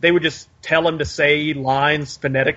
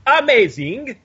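slow, higher hammy vampire drawl; mock Dracula; 5 semitones higher, slower than usual. Giving his plug still in a mock Dracula voice. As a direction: linger on each phrase like Dracula.

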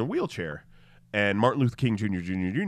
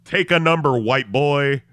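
sassy dismissal; 5 semitones higher, 9 dB louder than usual. Retold or imitated. Mock handler dismissal.

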